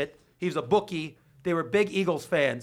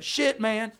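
imitating Justin; 3 semitones higher than usual. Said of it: "That's how he talks".

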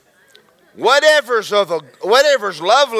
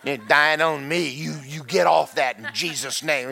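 rebuking wife; 3 semitones lower than usual. Retold or imitated. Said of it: "she was in there rebuking me".

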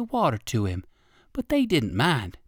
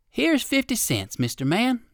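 a touch of kindness, lifted higher; kindly; 8 semitones higher than usual. A narrator's reading. Old rabbit kindly gives the sad balloon man money, gentle. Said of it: "said the old gentleman rabbit kindly".

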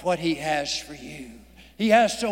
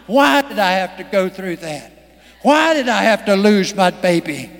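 pleading with God; 3 semitones higher, 3 dB louder than usual. Retold or imitated. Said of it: "you'll ask God".

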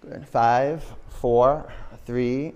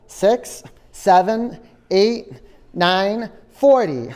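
loud pumped-up counting; 4 semitones higher, 5 dB louder, much slower than usual. Real, not acted. Instructor pushing class through counts.

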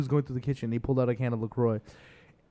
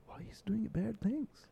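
higher, slow mock scolding from the relatives; 7 semitones higher, 10 dB quieter, slower than usual. Relatives scolding about the viral post, in a mock-stern voice. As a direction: quote the family back home chiding slowly, higher.

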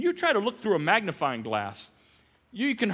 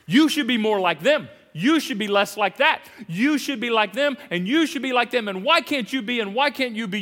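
judging voice; 3 semitones higher, 5 dB louder than usual. Retold or imitated. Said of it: "You are putting yourself in the place of judge".

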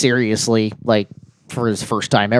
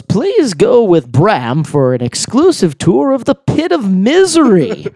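slow, drawn-out, lightly voiced royal decree; mock king decree; 7 semitones higher, slower than usual. King sending the guest to the pit, as a slow mock decree. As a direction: pronounce the punishment slowly and grandly. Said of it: "He goes".

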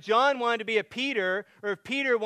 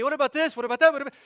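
high, loud rattled questions; anxious questioning; 6 semitones higher, 5 dB louder, much faster than usual. Acted. Worrier distracted from following Jesus, anxious questioning. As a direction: pile up the worried questions, raised voice. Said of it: "Great for worry and anxiety".

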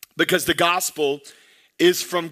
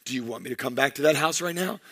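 stern dad threat; 5 semitones lower, 6 dB quieter, faster than usual. Retold or imitated. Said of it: "I'll look at him and I'll say".

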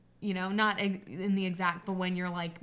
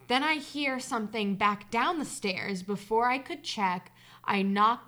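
story narration; slower than usual. A narrator's reading. Reader telling listeners of a childhood hide-and-seek scare, story narration. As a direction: read the tale aloud, measured and deliberate. Reads a personal story aloud.

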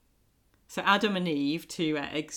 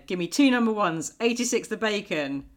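brisk diner order call; diner cook calling orders; 3 dB louder than usual. Retold or imitated. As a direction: rattle off orders like a busy waitress. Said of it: "Phoebe gives her impression of being a waitress".

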